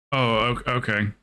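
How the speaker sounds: a hint of a hurt, fading okay; awkward faltering okay. Imitating Hell's Light's hurt, fading okay. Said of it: "Hell's Light literally went".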